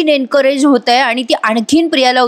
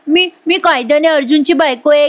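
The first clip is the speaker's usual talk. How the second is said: higher mimicking of the wife's claim; mock imitation; 5 semitones higher than usual. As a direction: parrot her words back. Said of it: "तू मला नेहमी ऐकवायचीस".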